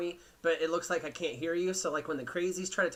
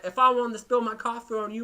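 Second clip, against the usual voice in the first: a rough first go at the angry bus lady, already loud; first take at her; 4 semitones higher, 6 dB louder than usual. Retold or imitated. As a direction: quote the lady loudly, not yet fully in character. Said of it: "I'll do it in her voice".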